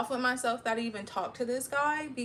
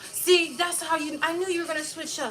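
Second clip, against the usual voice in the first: mocking accusation; 6 semitones higher than usual. Imitating his accusations.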